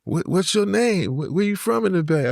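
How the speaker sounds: put-on LA Chicano accent. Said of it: "he was like".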